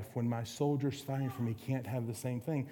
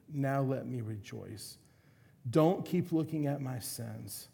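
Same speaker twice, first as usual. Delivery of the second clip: penitent prayer reading. Acted. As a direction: pray it as a broken confession. Reads Psalm 51 as prayer.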